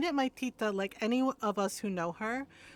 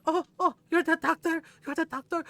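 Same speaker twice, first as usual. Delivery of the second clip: higher, mock-impressed echo; sarcastic awe; 6 semitones higher, 4 dB louder than usual. Aunt mocking the doctor's status, sarcastic awe. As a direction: imitate feigned amazement at his title.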